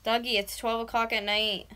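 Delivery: yelling. Real, not acted. Telling sleepy boyfriend how late it is, yelling. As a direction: nag him loudly to wake up. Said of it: "I normally yell like this".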